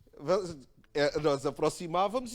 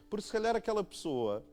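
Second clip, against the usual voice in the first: ordinary delivery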